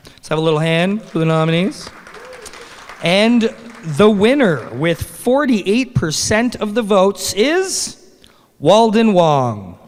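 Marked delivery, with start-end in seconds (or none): 3.0-9.8 announcer revealing the winner. Real, not acted. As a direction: build the pause and land the name.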